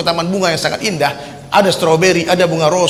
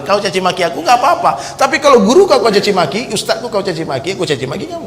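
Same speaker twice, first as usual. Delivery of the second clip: retold defiant retort. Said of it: "Saya bilang".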